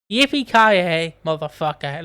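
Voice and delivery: a touch of Yorkshire, drawn-out start; lightly put-on Yorkshire accent. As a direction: imitate a Yorkshire catchphrase, slowly at first.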